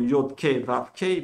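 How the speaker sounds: Kei instead of Hei, said clearly; Hebrew avoidance pronunciation. Shown as a demonstration. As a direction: spell out Yod, Kei, Vav, Kei as the Hebrews do. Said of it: "Prononcé par les Hébreux". (prononcer « Kei » à la place de « Hei »)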